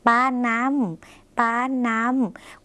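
slow, drawn-out word for learners; teacher's slow dictation of a word; slow model reading. Shown as a demonstration. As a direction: read the new word out slowly, twice. Teacher models new word slowly.

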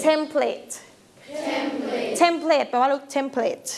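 template, drawn out slowly; model pronunciation. Shown as a demonstration. Teacher drills template with the class. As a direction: repeat template carefully. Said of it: "อ่ะ อ่านตามค่ะ template".

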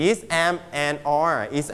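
am, and are is said slowly and deliberately; slow board-reading drill; slow model take. Shown as a demonstration. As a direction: spell out the forms at a dictation pace. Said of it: "นี่ is".

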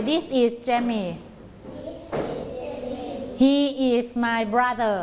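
very slow, word-by-word; slow choral drill. Shown as a demonstration. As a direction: chant it slowly together. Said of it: "คนต่อไป".

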